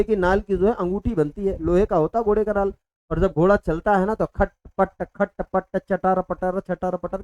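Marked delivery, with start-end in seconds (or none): 4.3-7.2 rhythmic clip-clop of a horse, done in words; hoofbeat imitation. Teacher shows class how a trotting horse sounds, hoofbeat imitation. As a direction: chant out the clatter of hooves. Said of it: "की आवाज आती है".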